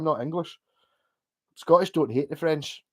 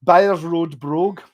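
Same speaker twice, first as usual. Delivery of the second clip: posh Byers Road brogue; 5 dB louder, slower than usual. Shown as a demonstration. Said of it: "switch between pure Glasgow and Byers Road brogue".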